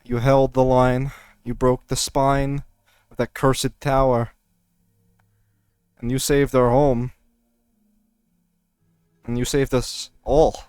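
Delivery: lightly voiced commander honouring heroes, emphatic; Venceslav, grateful commander. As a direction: praise the saviours in measured, rousing phrases.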